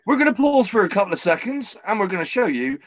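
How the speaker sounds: bright up-sell to the audience; excited announcement. Real, not acted. Host announcing a break.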